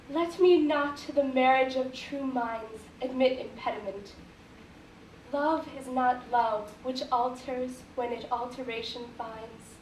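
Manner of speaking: measured Shakespeare reading with pauses at line ends; formal, composed verse delivery; sonnet recitation. Acted. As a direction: recite the sonnet deliberately, phrase by phrase.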